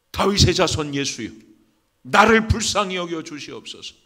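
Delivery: loud, forceful plea; crying for mercy. Acted. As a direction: call out to be heard over a crowd. 바디메오의 부르짖음 재연. (크게 외치는 간구)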